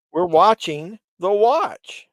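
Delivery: loud, high-pitched and drawn out; slow, loud announcement sliding up high; voice jumping high. Real, not acted. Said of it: "why did my voice get so high".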